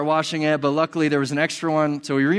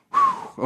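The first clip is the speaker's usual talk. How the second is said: exhausted whew. Real, not acted. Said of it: "okay, breathe".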